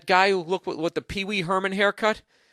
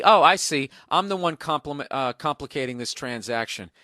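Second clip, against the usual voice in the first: sarcastic reading of a customer's retort. Retold or imitated. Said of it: "he says sarcastically".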